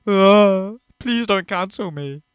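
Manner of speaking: whiny mock apology, rising to a plea. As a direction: mimic a grovelling apology, half-hearted. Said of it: "have to write out a whole thing about".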